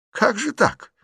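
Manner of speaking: jolted by what she hears; astonished old aunt. A narrator's reading. Aunt astonished at Liza's answer.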